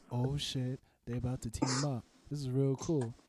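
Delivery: calm. Retold or imitated. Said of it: "this is how calm I was".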